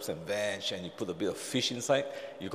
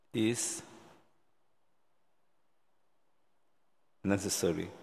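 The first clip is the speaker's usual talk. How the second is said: tender loving voice. Shown as a demonstration. Jesus calming anxious Martha, tender and loving. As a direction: soothe a worried friend with each word. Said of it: "In a tender, loving voice".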